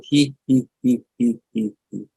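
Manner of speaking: deliberate "hee" laugh, beat by beat; forced practice giggle. Shown as a demonstration. Leader switches the group to "he", forced giggle. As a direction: fake a giggle that fades as it repeats. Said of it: "We're going to practice laughing".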